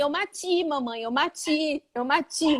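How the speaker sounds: put-on mild child voice saying mati; imitating a small child. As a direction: play the toddler proudly getting it wrong. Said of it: "Lembra o menininho da formiguinha?".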